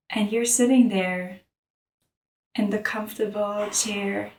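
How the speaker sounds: calm, measured meditation guide; unhurried mindfulness narration; guided meditation. Real, not acted. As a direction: lead them through an image, pausing long between phrases.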